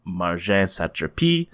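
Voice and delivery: slow, lightly French-accented Marjane Satrapi; French-spiced pronunciation. Real, not acted. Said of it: "you put a little Jacques Saint-Georges, uh, spice".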